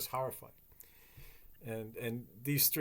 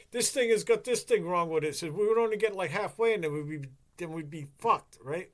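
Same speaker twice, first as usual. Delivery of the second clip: higher and louder, a nagging wife; complaining wife; 5 semitones higher, 5 dB louder than usual. Retold or imitated. Wife nags her husband about the beat-up spaceship, higher and louder. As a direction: push the complaint up high and loud.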